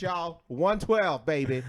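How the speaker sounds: loud, high, drawn-out announcing; hyped episode plug. Real, not acted. Host reminding listeners about next week, loud hyped plug. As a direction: stretch it out like a hype man.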